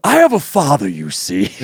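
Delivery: put-on drunken posh sneer. Posh rich-kid impression.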